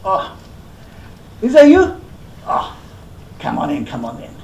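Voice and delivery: lightly voiced host, surprised, then hospitable; rakugo Master's welcome. Rakugo host greeting a visiting guest, pleased surprise. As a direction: play the old master opening his door.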